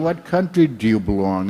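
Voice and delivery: put-on Indian accent. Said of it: "I like doing Indian accent".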